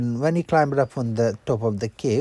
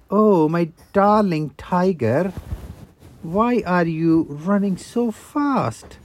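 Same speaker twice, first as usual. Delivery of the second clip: sly fox; 4 semitones higher, 3 dB louder, slower than usual. Acted. Fox voice, slow and sweet.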